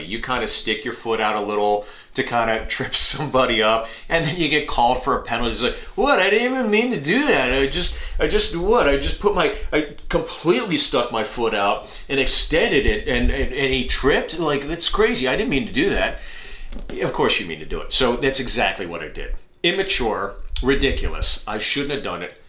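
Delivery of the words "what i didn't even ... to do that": fake innocent athlete.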